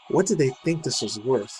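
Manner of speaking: put-on reading a quote in a light British accent; mock British accent. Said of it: "I was doing a British accent".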